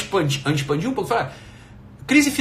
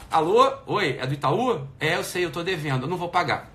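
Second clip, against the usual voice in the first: casual and softer, talking to the bank on the phone; pretend phone call; 5 dB quieter than usual. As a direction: answer the bank's call, easygoing and quieter. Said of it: "É telefone. Aqui, ó". (atendendo o banco, tranquilo e baixinho)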